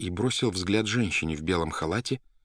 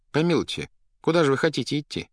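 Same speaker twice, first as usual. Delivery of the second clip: higher, quick protest; gently object, pitch raised; remonstrating doctor; 9 semitones higher, 5 dB louder than usual. Acted. Doctor stops patient from leaving, remonstrating.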